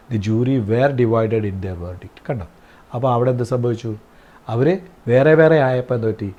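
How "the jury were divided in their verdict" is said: very slow, word by word; slow dictation. Shown as a demonstration. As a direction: read it out slowly for the class to write. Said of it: "divided ആയപ്പോൾ". (വളരെ പതുക്കെ, വാക്കോരോന്നായി)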